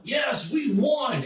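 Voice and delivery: high, slow, shouted mock triumph; gloating. The Elite celebrating beating Superman, high slow triumphant shout. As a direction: crow the victory.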